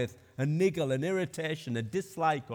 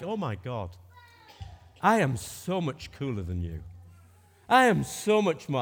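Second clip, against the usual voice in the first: hammed-up snobbish boast, rising louder; mock superior; 5 dB louder than usual. Preacher mimicking a scornful snob, mock superiority. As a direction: play the smug show-off. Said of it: "an attitude that goes something like".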